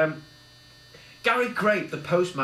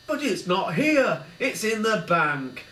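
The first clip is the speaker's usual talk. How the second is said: cowering; 6 semitones higher, 5 dB louder than usual. A narrator's reading. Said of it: "cowered Ronald Raisin".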